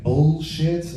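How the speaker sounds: "bullshit" slowly in an American accent, full l. Shown as a demonstration. Comic testing the wrong version, slow American-accented "bullshit". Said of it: "that sounds too incesty".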